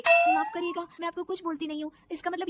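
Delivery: high loud indignant retort; indignant outburst. Acted. Daughter-in-law answers back to mother-in-law, high indignant. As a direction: snap back at last.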